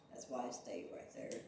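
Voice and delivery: talking through a yawn; words stretched by a yawn. Real, not acted. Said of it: "Sorry, I was yawning".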